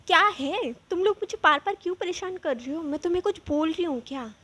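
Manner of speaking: high, loud, eerie angry voice, fast at the end; possessed woman snapping. Retold or imitated. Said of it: "ऐसे वो बोली". (भूत सवार औरत की तरह तेज़, ऊँची, गुस्से वाली आवाज़)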